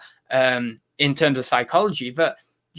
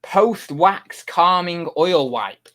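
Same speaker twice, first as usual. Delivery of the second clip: reading the label; 3 semitones higher, 3 dB louder, much slower than usual. Shown as a demonstration. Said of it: "I'll show you what they say".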